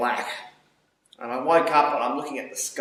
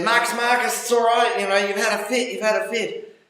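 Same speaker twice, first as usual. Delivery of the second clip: higher, soothing staff voice, lightly voiced; calm him gently, lightly put on; a hint of reassuring nurses; 10 semitones higher, 4 dB louder than usual. Hospital staff reassuring a panicked patient, lightly voiced and higher.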